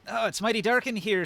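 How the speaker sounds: high, light princess voice; sing-song princess, lilting and sweet; lilting feminine voice. Acted. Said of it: "in her lilting feminine voice".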